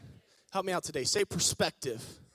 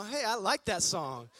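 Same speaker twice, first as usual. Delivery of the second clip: much higher, louder, thrilled calling; excited God; 9 semitones higher, 8 dB louder than usual. Acted. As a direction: call the angels over with delight. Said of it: "I can see God moving around".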